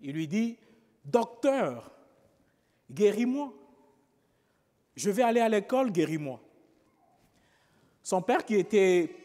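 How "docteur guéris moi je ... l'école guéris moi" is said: lightly voiced pleading little boy, higher pitched; mild imitation of a child's plea; crying-out sick child.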